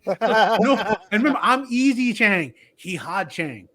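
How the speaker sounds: put-on high heavy Asian accent through a laugh; mimicking the professor's heavy Asian accent; Asian accent impression. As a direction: finish the professor bit in his accent. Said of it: "I'm doing his accent".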